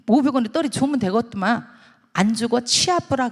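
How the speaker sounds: brusque Gyeongsang dialect; Gyeongsang granny. Acted. Gyeongsang granny turning down five hundred won, brusque dialect. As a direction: grumble and refuse, Gyeongsang style. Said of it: "할매가".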